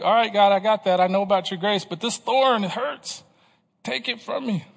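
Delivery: concede, then plead as the hurt takes over; mild protesting plea. Acted. Acting Paul's protest to God.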